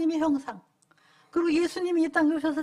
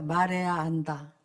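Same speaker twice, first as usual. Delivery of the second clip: call and response; 8 semitones lower, slower than usual. Shown as a demonstration. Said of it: "한번 저를 따라 해볼까요?".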